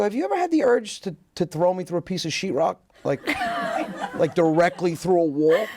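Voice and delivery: cheeky high question. Retold or imitated. Cheeky question to his mom.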